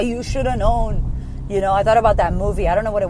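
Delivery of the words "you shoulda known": drawn-out, slow, higher reproach. Retold or imitated. Wife reproaches husband who forgot the gift, slow and pointed. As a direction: stretch it out like a pointed accusation. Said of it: "Then I".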